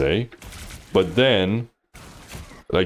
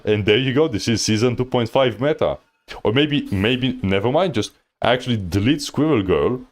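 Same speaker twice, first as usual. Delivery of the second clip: higher-pitched, lively sarcastic pitch; mock enthusiasm; 4 semitones higher than usual. Real, not acted. Coach mock-announcing the new meta to viewers, exasperated sarcasm. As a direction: sell the absurd plan with exasperated pep.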